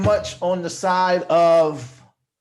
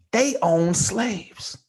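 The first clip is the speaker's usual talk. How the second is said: very slow, softer delivery; nice and slow; 3 semitones lower, 5 dB quieter, much slower than usual. Shown as a demonstration. Revealing the confession on request, slow and drawn out. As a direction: stretch each word out, lowering the volume. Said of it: "nice and slow".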